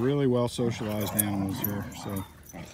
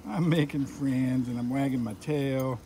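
happy dog voice. Retold or imitated. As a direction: play the dog, delighted to have friends.

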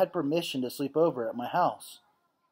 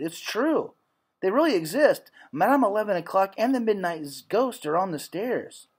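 insisting; 4 semitones higher than usual. Acted. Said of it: "But I insisted".

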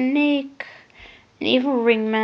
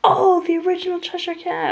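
higher, louder gushing mom voice; imitating mom; 8 semitones higher, 6 dB louder than usual. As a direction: mimic mom's delighted gasp. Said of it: "My mom was like".

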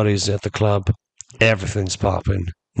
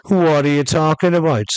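higher-pitched, mildly loud retort; raised voice, retold; 5 semitones higher than usual. Kareem answering his challenger, mildly raised voice. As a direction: imitate answering back for everyone to hear. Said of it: "he says it loud enough so everybody can hear".

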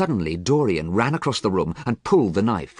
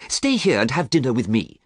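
higher-pitched, insistent invitation; earnest plea; 5 semitones higher, 4 dB louder than usual. Acted. Painter asks young man to dine with him, pleading. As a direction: coax him to stay. Basil pleads with Dorian to stay.

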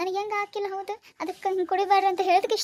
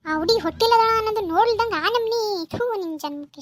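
louder furious reproach; angry scolding; 3 semitones higher, 6 dB louder than usual. Acted. Neighbour shouting at the drunk father-in-law, angry. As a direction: scold him hard for hurting a pregnant girl.

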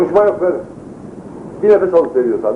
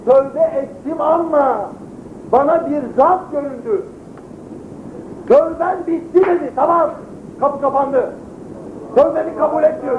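dying man's voice; 8 semitones higher than usual. Retold or imitated. Dying man's frightened quoted words.

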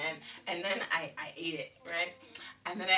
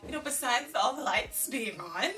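put-on little girl pleading; 7 semitones higher than usual. Child pleading with dad.

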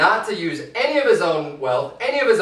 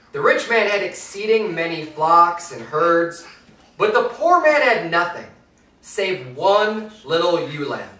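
measured, solemn Bible reading; solemn King James reading; scripture reading. Acted. Preacher reads scripture aloud.

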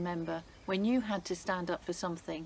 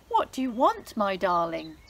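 doting king; 7 dB louder than usual. Acted. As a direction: welcome her with delight. King greets Esther fondly.

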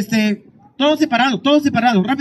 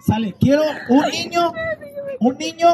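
higher call to the crowd; 7 semitones higher than usual. Real, not acted. Host calls out to crowd. (llamando al público en voz alta)

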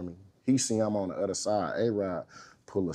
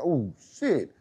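laughing, half-scared exclamation; a rookie laughing at the grown-ups facing him; 7 semitones higher, slower than usual. Retold or imitated. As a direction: laugh through the nerves. Seeing the older defense.

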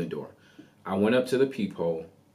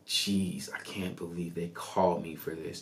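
annoyed; 2 semitones lower, 6 dB quieter than usual. Retold or imitated.

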